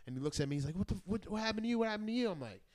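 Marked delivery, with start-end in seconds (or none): 0.8-2.3 high-pitched questioning in a put-on voice; higher-pitched retold query; imitated young detainee. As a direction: act out a cellmate asking curiously. Young detainee questioning him, acted out.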